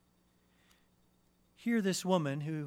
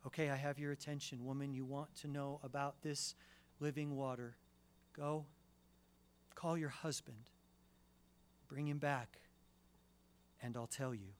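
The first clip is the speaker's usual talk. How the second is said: softer, quiet, tender command; gentle Jesus; 4 dB quieter than usual. Pretend. Jesus quietly telling the woman to call her husband, soft and tender. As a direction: speak softly but pointedly to her.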